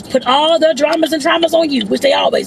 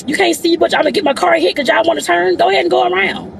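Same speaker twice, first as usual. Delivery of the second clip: raised-pitch annoyance at drivers; upset griping; 4 semitones higher than usual. Real, not acted. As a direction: complain at the cars ahead. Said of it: "I'm all upset about this stupid car".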